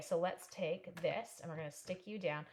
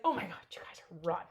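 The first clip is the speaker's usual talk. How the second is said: whisper; 3 semitones lower than usual. Retold or imitated. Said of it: "I was like".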